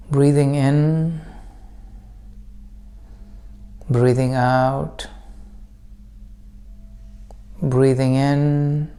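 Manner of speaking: calm meditation guide with long pauses; guided meditation. Acted. Teacher leading listeners into breath practice, calm guided meditation. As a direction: guide them gently, unhurried, leaving room to breathe.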